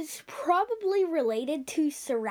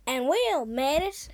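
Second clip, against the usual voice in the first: put-on Australian accent; 4 dB louder, slower than usual. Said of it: "trying now to an Australian accent".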